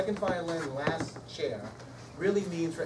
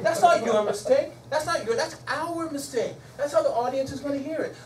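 encouraging teacher; 8 semitones higher, 6 dB louder than usual. Shown as a demonstration. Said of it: "you know what I say".

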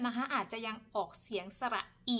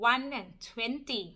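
slow one and twenty; much slower than usual. Shown as a demonstration. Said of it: "เป็น".

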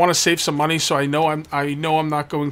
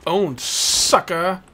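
taunt; 3 semitones higher, much slower than usual. Acted. Taunting a thief after killing him.

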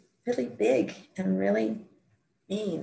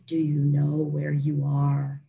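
slow, lower booming voice; 4 semitones lower, slower than usual. Retold or imitated. A voice from the red fog asks where she is, slow boom. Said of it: "this voice just boomed out".

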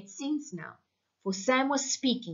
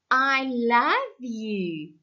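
bitterly; 3 semitones higher, 4 dB louder, much slower than usual. Acted. Wife mocking the radio message to her husband, bitterly. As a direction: spit out a love line you no longer believe. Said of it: "she said bitterly".

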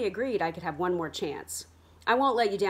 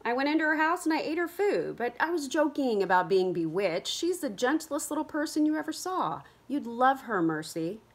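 eager; 7 semitones higher than usual. Acted. Kit defends the old woman.

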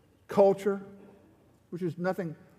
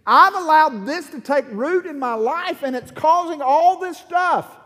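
raised, pleading prayer to God; anguished prayer of repentance, voice raised; crying out to God; 6 semitones higher, 5 dB louder than usual. Retold or imitated. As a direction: cry out your confession, higher and louder. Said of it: "I just cried out to God and said".

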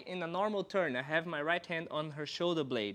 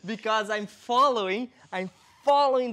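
laughing while talking; 6 semitones higher, 8 dB louder than usual. Real, not acted. Still laughing after the joke.

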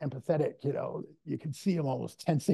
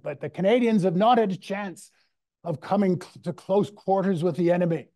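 louder, a little higher, playing Churchill with a hint of an English orator's accent; lightly hammed-up Churchill delivering a wartime speech; mock Churchillian accent; 4 semitones higher, 4 dB louder than usual. Lecturer quoting Churchill's speech to his class, in a mild mock Churchillian accent. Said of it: "my, my worst Churchillian accent".

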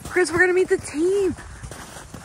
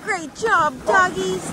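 encouraging praise; 5 semitones higher than usual. Real, not acted. Cheers on the sled dogs.

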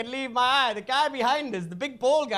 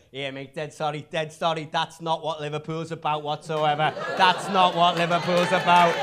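apologetic; 5 semitones lower than usual. Retold or imitated. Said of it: "turned back to me and went".

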